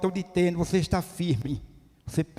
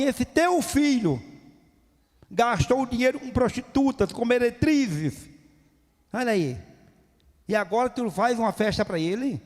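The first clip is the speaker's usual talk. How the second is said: resentful accusation; 4 semitones higher than usual. Acted. Older son accusing his brother to the father, bitterly raised. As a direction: lay out the charges with contempt. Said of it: "Ele falou assim".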